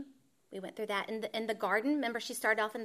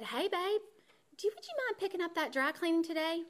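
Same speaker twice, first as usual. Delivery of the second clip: imitating husband; 7 semitones higher, faster than usual. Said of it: "he said".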